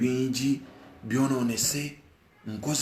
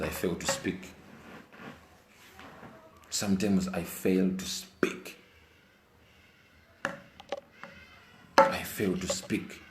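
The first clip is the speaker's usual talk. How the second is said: emotional slow; 3 semitones lower, 5 dB quieter, slower than usual. Real, not acted. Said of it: "Sometimes I get emotional".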